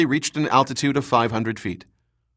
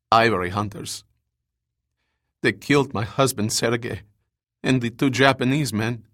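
lightly voiced wounded survivor; injured woman. A narrator's reading. Wounded survivor telling rescuers of an abduction, lightly voiced. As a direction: play the hurt scientist with a slight change of voice.

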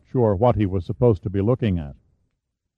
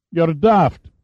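higher, startled outburst; blurted out; 6 semitones higher than usual. A narrator's reading. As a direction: blurt it out in disbelief. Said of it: "Fox blurted".

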